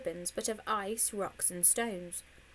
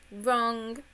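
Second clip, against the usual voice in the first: loud triumphant call; trumpeted; 2 semitones higher, 5 dB louder than usual. Acted. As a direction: announce his mistake proudly. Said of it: "trumpeted Annie".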